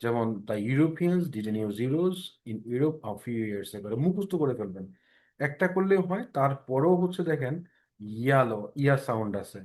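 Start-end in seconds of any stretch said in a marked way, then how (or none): 0.5-3.8 very slow drill reading; model sentence read aloud. Shown as a demonstration. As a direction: spell the sentence out slowly for the class. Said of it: "জোরে জোরে বলবেন যখন বলবেন".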